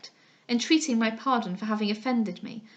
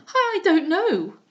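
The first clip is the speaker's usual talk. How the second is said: higher, louder, slow and panicked; out of breath; 7 semitones higher, 7 dB louder, much slower than usual. Acted. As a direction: gasp it out in fright. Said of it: "quite out of breath".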